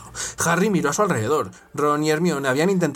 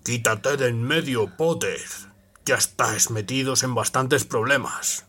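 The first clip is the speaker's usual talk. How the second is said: low, slow growl; 4 semitones lower than usual. Acted. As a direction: growl the order. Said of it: "gruñó Snape".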